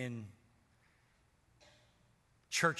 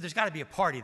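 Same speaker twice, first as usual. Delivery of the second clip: eager party talk; 4 semitones higher, 8 dB louder, much faster than usual. Retold or imitated. Young self eager to party.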